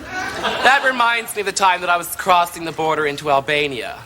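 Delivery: ordinary talk, nothing marked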